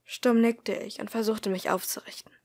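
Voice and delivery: measured first-person audiobook narration; story narration. A narrator's reading. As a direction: read the story aloud, calmly paced. Reads story aloud.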